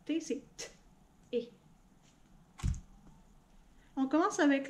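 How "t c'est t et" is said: sounds chopped apart, one by one; robot voice. Shown as a demonstration. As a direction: split the word into robot sounds. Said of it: "Si on parle en robot". (voix de robot, sons détachés)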